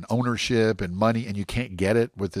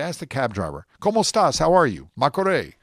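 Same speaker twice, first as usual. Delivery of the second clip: lively cab driver greeting, pitched up; upbeat cab driver; 4 semitones higher, 4 dB louder than usual. Retold or imitated. Tourist greeting a Medellin cab driver, upbeat. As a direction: greet like a cheerful Colombian cabbie.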